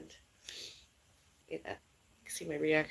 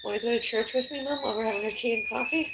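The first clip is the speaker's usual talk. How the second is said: calling out; 5 semitones higher, 4 dB louder, faster than usual. Real, not acted. Calling to mom about church.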